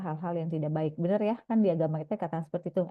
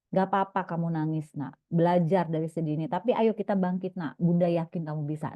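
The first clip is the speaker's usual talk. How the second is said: comforting mother; 3 semitones lower than usual. Shown as a demonstration. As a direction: comfort the crying child, then lift him up. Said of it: "nggak apa-apa validasi". (ibu menghibur anak dengan lembut dan menyemangati)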